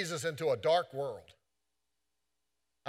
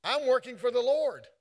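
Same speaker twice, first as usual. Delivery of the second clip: raised, higher voice telling off the boss; defiant retort; 4 semitones higher than usual. Retold or imitated. Preacher acting out a retort to an annoying boss, raised and higher. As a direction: brush the boss off with a bold declaration. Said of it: "you just say to yourself".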